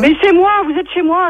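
exasperated retort. Real, not acted. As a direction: insist indignantly that you are in charge. Farmer's exasperated retort to caller.

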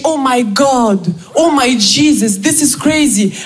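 slow, drawn-out American gushing; gospel excitement. Retold or imitated. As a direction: ham up an ecstatic American friend. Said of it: "Un gospel de dix-sept minutes". (l'amie américaine, exaltée comme un gospel)

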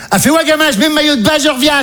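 high, chirpy mother voice; mother's voice. Retold or imitated. Son retells his mother asking to swim, high mum voice.

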